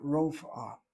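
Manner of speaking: "rofa" split as rof, then ah; mispronounced rof-ah. Shown as a demonstration. Teacher showing a second wrong way, mispronounced. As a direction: close "rofa" on the f, then add ah. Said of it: "People would say rof and then say ah".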